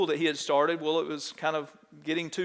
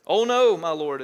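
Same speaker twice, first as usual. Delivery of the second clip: dramatic cry; 6 dB louder than usual. Acted. Reading the student's cry aloud.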